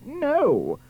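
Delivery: high, long-drawn cry of refusal; horrified scream. Acted. Prince seeing the ugly sister's fit, screaming. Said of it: "The prince screamed".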